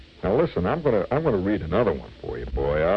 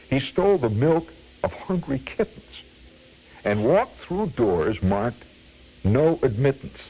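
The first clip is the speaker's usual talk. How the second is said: measured, rhythmic verse recital; comic poem reading; 3 semitones higher than usual. Acted. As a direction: relish each rhyme of a mock cautionary tale.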